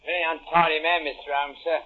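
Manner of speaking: lightly voiced working-class tradesman; a hint of a cockney repairman; British workman. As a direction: play a humble workman at the door. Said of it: "a typical example of the British working man".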